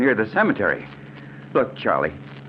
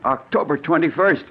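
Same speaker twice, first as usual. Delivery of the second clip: rising, higher shocked outburst; dawning horror, voice climbing; horrified realisation; 6 semitones higher than usual. Acted. Victim reads his death date.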